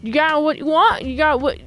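lightly voiced pushy peddler; peddler's sales patter. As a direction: imitate a peddler hawking his goods. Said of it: "a peddler type man".

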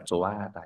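"chồ a ha tả" with the subscript h unsounded; silent h. Shown as a demonstration. Teacher repeating the correct reading for class, silent h. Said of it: "Mình sẽ đọc là".

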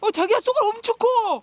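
excited call, high and loud; yelling across the room. Real, not acted. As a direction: shout to your partner about the big fish. Spots huge fish, calls partner.

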